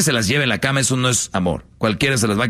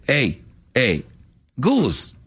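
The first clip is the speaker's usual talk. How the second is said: put-on demanding girlfriend; 3 semitones higher, slower than usual. Woman pressing her man, acted.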